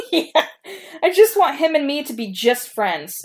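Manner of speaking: laughing through the words; embarrassed reading aloud. Real, not acted. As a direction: giggle while reading it out. Laughs at own story.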